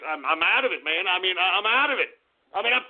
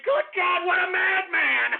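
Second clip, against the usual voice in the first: high, slow, gleeful; giddy admiring laugh; laughing delight; 9 semitones higher, slower than usual. Real, not acted. Delighted about the stunt.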